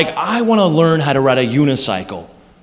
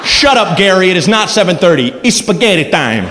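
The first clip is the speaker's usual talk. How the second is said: mock scolding. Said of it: "I will fight anyone".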